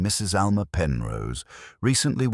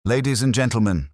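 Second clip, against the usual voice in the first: higher, louder official announcement; a mildly hammed-up town official calling the hall to order; pompous intoning; 7 semitones higher, 5 dB louder than usual. A narrator's reading. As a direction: hold forth like a self-important marshal. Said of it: "he intoned".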